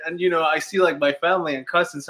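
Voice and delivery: ordinary talk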